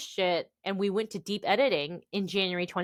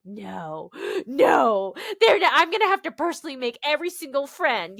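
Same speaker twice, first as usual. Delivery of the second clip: gasp, rising higher and louder; mock alarm; 6 semitones higher, 6 dB louder than usual. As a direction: protest in exaggerated panic. Retold protest, gasping, pitch climbing.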